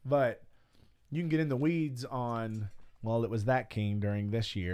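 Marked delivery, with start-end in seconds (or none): 3.0-4.7 lightly nerdy know-it-all tone; a hint of a pedantic nerd. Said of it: "I like how you did a nerd voice".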